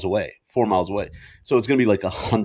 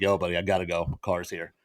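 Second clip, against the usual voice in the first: lightly voiced cool Hollywood type, lower; Hollywood big shot; 4 semitones lower, 4 dB quieter than usual. Rider shows off to his buddy, mock Hollywood cool. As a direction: toss it off low and casual, softer at the end. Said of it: "I'm like, Hollywood".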